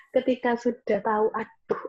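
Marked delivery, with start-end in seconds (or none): 1.3-1.8 regretful sigh. Retold or imitated. Quoting a regretful mother.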